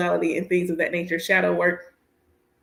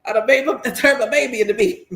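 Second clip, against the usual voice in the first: laughing mock lament; 4 semitones higher than usual. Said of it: "And I'm like".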